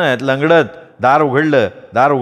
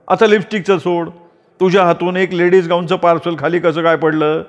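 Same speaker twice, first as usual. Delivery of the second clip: higher scolding aunt voice; gossiping aunt; 4 semitones higher than usual. Acted. Aunt demanding the affair be exposed, higher scolding voice. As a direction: stir up trouble like a nosy aunt.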